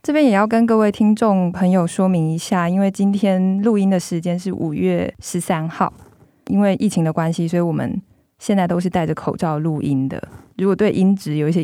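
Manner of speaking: muffled behind a mask; speaking through a face mask. Real, not acted.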